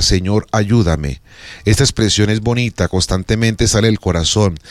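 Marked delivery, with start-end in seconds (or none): 0.0-1.2 humble plea. Retold or imitated. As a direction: pray it slowly, as in a moment of need. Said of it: "mucha gente en el momento una súplica".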